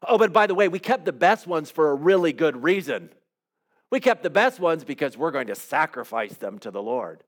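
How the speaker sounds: mock-defensive king explaining it away; a hint of a squirming Saul justifying himself; Saul minimizing.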